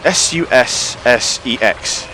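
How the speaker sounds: slow, letter by letter; dictation-style spelling. Shown as a demonstration. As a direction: spell it out deliberately with gaps between letters. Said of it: "when you write them down".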